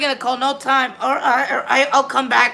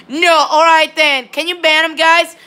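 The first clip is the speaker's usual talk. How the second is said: indignant protest; 4 semitones higher, 4 dB louder than usual. Real, not acted. Streamer angry at being called squeaky.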